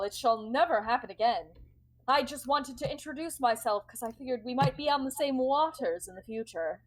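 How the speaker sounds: mildly flustered apology; apologetic. Acted. Rival captain excusing her unannounced boarding, apologetic. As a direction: stumble through a polite, slightly taken-aback apology. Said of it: "very apologetic".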